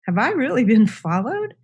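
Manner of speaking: retold alarmed disbelief, pitch swooping up; freaked out. Teller realising she may have been watched, freaked out. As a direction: act out a startled, incredulous question. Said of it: "I was super freaked out".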